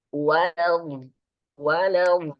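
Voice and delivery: walau with a flowing tongue sound; flowing consonant. Shown as a demonstration. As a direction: let the sound flow on walau. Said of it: "itu gerakan lidah".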